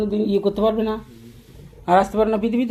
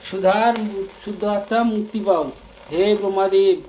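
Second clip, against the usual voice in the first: chanted plea to the gods, voice held up; loud invocation. Real, not acted. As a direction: call out the prayer loudly. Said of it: "জোরে জোরে?". (জোরে জোরে মন্ত্রের মতো প্রার্থনা)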